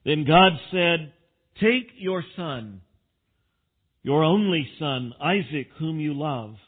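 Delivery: projected, deliberate Bible reading; scripture reading. Real, not acted. Preacher reads Genesis to the congregation, proclaiming it. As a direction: read it out in measured, emphatic phrases.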